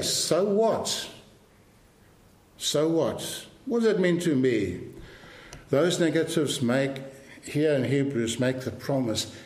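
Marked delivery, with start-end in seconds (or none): 0.0-4.8 mock skeptical listener. Preacher voicing a doubting listener, mock dismissive. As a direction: toss it off like a doubting churchgoer. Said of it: "And so you say".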